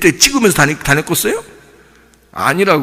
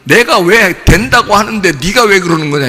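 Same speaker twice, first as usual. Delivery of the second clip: mildly indignant retold rebuke; angry God; 3 semitones higher than usual. God answering Moses' refusal, mock angry. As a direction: scold with a touch of exasperation. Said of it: "막 화를 냅니다, 하나님이".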